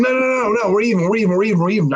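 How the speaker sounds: high, rapid-fire repeated pleading that eases down; Ric Flair begging off. Retold or imitated. Chad backing off from the narrator, imitated pleading. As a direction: back away pleading, a comic imitation. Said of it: "best Ric Flair bag off impression".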